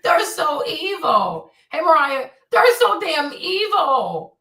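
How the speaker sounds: slow, stretched exaggerated complaint; half-laughing mock indignation, very slow; drawn-out mock outrage. Real, not acted. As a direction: drag out the words in theatrical disbelief.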